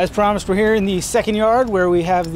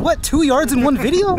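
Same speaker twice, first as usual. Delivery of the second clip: mock surprise; 10 semitones higher, 4 dB louder than usual. Mock amazement.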